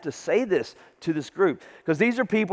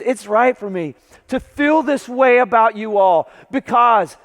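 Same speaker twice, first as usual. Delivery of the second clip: higher, louder, ardent scripture reading; heartfelt emotion; 4 semitones higher, 4 dB louder than usual. Retold or imitated. Paul writing his heart to the church, heartfelt emotion. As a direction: read it out with feeling for them. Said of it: "listen to the emotion of this".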